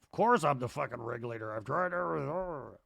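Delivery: mock hot-mic Janet. Janet alone mic'd up in bathroom, muttering. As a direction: caught confessing to herself. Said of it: "Janet to go to the bathroom mic'd up".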